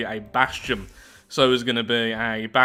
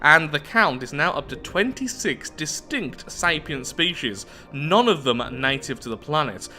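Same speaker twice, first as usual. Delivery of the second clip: measured read-aloud narrator voice; story narration. Acted. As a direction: read the lore out evenly, like an audiobook. Reads game event text.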